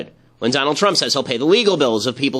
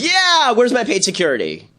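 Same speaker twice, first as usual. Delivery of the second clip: mocking whiny actor; 9 semitones higher than usual. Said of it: "all the actors are like".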